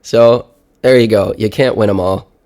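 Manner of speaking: stuffy blocked nose, sick with a cold. Real, not acted. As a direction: talk like there's a clothespin on your nose. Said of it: "I sounded more like I sound right now, which is like I have a clothespin on my nose".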